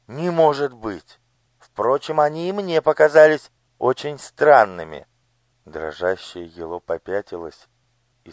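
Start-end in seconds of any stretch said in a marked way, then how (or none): 0.1-5.1 lightly voiced high, fussy lady; a spoiled daughter talking her father round; pampered lady. Lady replies. (капризный голос дамы)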